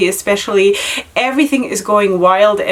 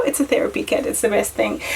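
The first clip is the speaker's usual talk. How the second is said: hushed whisper; 6 dB quieter than usual. Shown as a demonstration. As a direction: breathe it softly.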